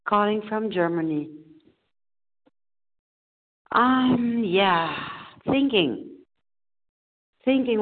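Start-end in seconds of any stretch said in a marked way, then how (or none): 3.7-7.8 a real catch of tears on the um; choked-up crying. Real, not acted. Caller to the meeting, fighting tears. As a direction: voice cracks into a sob before speaking. Caller breaks down sharing a trauma.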